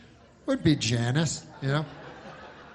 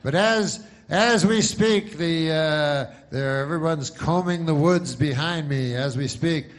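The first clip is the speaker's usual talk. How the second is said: mock field reporter; 3 semitones higher than usual. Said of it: "he's like".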